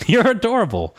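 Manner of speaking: laughing. Real, not acted. Laughing at cute kobold.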